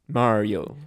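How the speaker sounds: Mario squeezed to MAR-oh, two syllables; Mario clipped to MAR-oh; Mario as MAR-oh, two beats. Shown as a demonstration. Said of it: "Two syllables".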